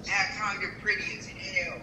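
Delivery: normal talking voice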